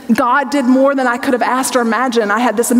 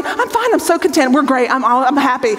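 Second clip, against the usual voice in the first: tearful denial. Retold or imitated. Wife insisting to husband she's fine while sobbing, in denial. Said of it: "in complete denial".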